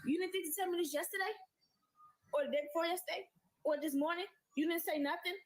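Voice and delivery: incredulous outrage at the decorator; outraged high questions. Retold or imitated. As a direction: fire questions at him, incredulous.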